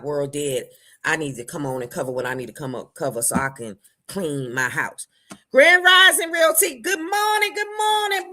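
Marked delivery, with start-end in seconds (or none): 5.5-8.3 a high, loud hello to a viewer; shouted greeting. Real, not acted. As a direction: call it out across the room.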